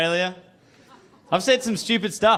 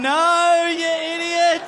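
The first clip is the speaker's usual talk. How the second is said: inner scolding; 11 semitones higher than usual. Retold or imitated. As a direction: yell at yourself like a frustrated inner voice. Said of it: "my brain's gone".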